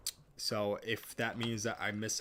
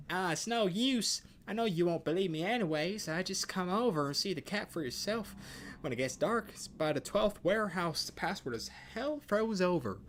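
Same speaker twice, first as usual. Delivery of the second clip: put-on high, louder, breathless child gushing; a kid who can't contain the wonder; excited kid; 10 semitones higher, 5 dB louder than usual. Child describes the invisible cat to the visitor, high and excited. Kid NPC gives the password.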